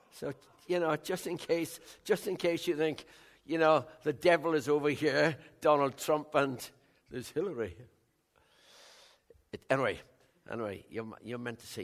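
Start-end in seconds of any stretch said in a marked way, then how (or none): 0.1-7.8 higher and louder, building to near a shout; emphatic. Real, not acted. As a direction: drive it home, voice climbing and swelling. Emphatic jab about devil and Trump.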